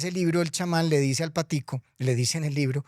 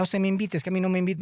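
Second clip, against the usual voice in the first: higher, touched and surprised; delighted Death; 5 semitones higher, faster than usual. Acted. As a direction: gush at being invited. Muerte emocionada. (la muerte encantada con la invitación)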